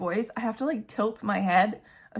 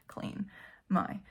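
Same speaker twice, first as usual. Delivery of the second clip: whisper; 11 dB quieter, slower than usual. Real, not acted. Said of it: "whispered end of plan".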